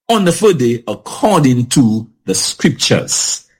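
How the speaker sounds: measured Bible reading aloud; scripture reading. Acted. Host reads First Corinthians to the panel, measured scripture reading.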